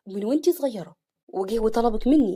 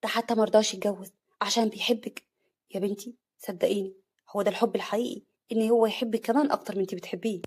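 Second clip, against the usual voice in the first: tender. Acted. Father comforting daughter tenderly. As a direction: reassure her gently. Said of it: "أبوها بحنان".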